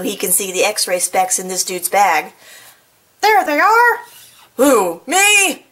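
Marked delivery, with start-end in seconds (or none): 3.2-4.0 higher, louder: "There they are!" called out; triumphant shout. Acted. Owl catching the burglar, triumphant high shout. Owl spots the stolen specs. 4.6-5.6 high, louder "Me?" in fake surprise; mock innocent burglar. Burglar caught with the specs, fake innocent surprise.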